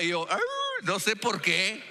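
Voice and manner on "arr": aullido. Retold or imitated. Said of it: "le respondo con un aullido".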